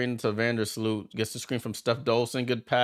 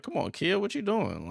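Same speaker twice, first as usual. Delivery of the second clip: imitating Brianna; 10 semitones higher than usual. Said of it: "Oh, she's like".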